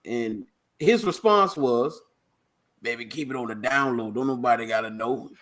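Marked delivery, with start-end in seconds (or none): 2.8-5.3 raspy coach voice. Retold or imitated. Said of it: "that raspy voice he got".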